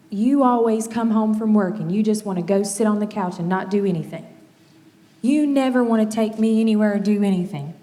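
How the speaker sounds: loud, fast nagging accusation; accusing complaint. Retold or imitated. Parent voicing a spouse's complaint, mock accusing. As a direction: whine it at your partner like a grievance.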